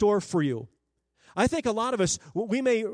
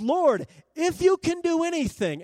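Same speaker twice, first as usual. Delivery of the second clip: high, loud desperate plea to the Lord; desperate cry; 9 semitones higher, 5 dB louder than usual. Retold or imitated. A father begging Jesus to save his son, desperate cry. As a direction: cry out as the distraught father would. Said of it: "this father is distraught".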